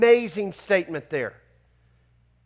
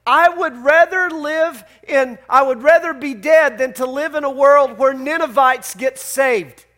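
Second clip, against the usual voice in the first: Jonah's outburst; 2 semitones higher, 4 dB louder than usual. Retold or imitated. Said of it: "Jonah says to God literally".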